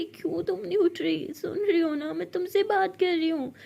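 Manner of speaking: tender coaxing. Acted. Tender coaxing of sleeping friend. (प्यार से धीरे मनाना)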